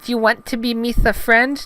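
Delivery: high, hopeful alien voice; Jar Jar Binks, perking up. Acted. Gungan perks up at talk of friendship, high hopeful voice. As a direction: ask hopefully in cartoon falsetto. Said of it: "perking up slightly".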